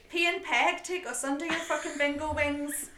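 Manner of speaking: mock plea.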